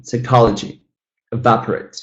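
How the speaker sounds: "psychology, evaporate" stressed on CHOL and VAP; second-syllable stress. Shown as a demonstration. Teacher's four-syllable examples, second-syllable stress on "psychology, evaporate". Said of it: "The second one".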